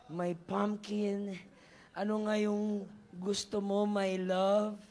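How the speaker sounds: slow, doting, lovey-dovey voice; sweet-talking king. Acted. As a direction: coo every pet name like a smitten king. King cooing to Esther. (malambing na boses ng haring in love)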